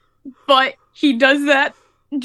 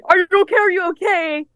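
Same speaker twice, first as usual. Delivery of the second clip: higher, mildly alarmed imitation of mom; urgent concern; 6 semitones higher than usual. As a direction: try to rouse someone. Mom trying to rouse her.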